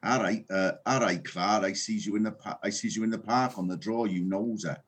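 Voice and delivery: light Newport Welsh lilt, half Bristol; a hint of a Newport Welsh accent. Shown as a demonstration. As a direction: drop into a Newport local's voice. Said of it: "this is my phrase that I've learned".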